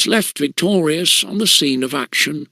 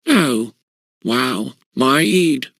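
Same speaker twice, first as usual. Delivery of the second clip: groaning; 2 semitones lower, slower than usual. A narrator's reading. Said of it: "groaned Pug".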